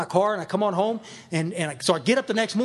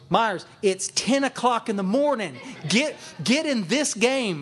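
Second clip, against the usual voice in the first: slow, emphatic retold telling-off; mildly hammed-up exasperation, rising in pitch; exasperated scolding; 4 semitones higher, slower than usual. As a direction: spell it out to someone not paying attention.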